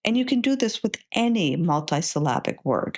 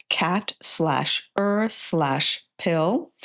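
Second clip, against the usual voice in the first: slowly spelled out; much slower than usual. Shown as a demonstration. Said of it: "build the word pyramid".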